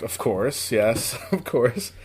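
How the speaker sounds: soft, slow and eager; quietly overjoyed to be asked; hushed, drawn-out eager acceptance; eager yes. Retold or imitated. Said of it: "I was like".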